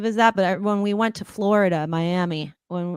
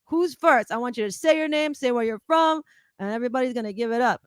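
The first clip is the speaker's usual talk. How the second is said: 1 DJ voice; 4 semitones higher than usual. Retold or imitated. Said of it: "he's like".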